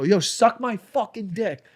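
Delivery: high, slow drawn-out taunt; retold slow taunt. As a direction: drag out the taunt at the leaving heckler. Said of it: "And I go".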